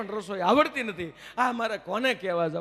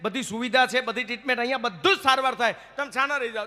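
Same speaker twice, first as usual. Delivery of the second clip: higher, pleading doctor; a doctor coaxing his crying patient, pitched up; higher-pitched doctor begging the patient to stop crying; 5 semitones higher than usual. Acted. Doctor voiced in a joke.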